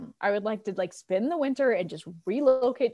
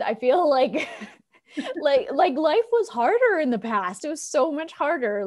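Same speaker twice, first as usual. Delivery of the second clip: laughing; 6 semitones higher, 4 dB louder than usual. Real, not acted. Laughs while answering.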